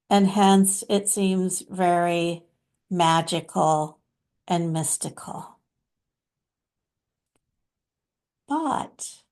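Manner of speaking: lightly voiced mystical master, measured phrases; Babaji. Channeled master addressing followers, lightly put-on deliberate sage voice. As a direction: speak as a loving spiritual teacher, pausing often, leaning on key words.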